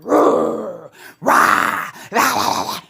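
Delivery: gruff mock rah rah; mimicking his angry noise; mock angry ranting. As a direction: bark out meaningless rah sounds like a fuming man. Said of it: "He said".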